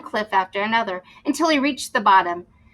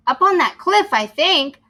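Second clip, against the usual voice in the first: high, louder pirate reply; 6 semitones higher, 5 dB louder than usual. Acted. Pirate Wavy pointing to the crew, higher voice. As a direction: answer up with a higher voice.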